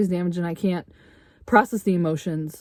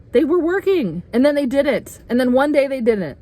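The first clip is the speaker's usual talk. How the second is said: emotional peak; 7 semitones higher, 4 dB louder than usual. Real, not acted.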